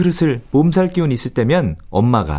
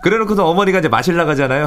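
ordinary talk

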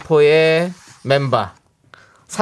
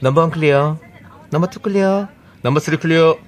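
crisp cabin crew announcement; flight attendant. Pretend. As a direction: call the door checks like crew. Cabin crew door check call. (승무원 안내 방송)

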